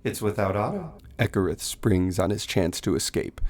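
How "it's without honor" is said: higher, soft, cold seductive voice; bored of the prey, urge the kill; icy undead lady; vampire queen. Acted. Vampire woman and husband talk.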